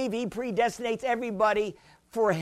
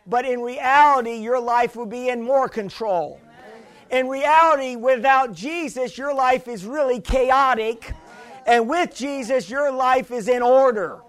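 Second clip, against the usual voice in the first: rising, louder preacher's build; preaching; 3 dB louder than usual. Acted. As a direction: preach it with growing force. Preaching to congregation.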